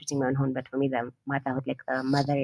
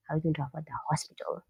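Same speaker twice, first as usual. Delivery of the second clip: whispered thought; 7 dB quieter, faster than usual. Retold or imitated. Inner thought, worried.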